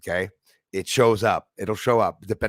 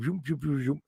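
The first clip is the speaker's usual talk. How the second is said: imitated zooming; 4 semitones higher, 6 dB quieter than usual. Imitates lights flying past.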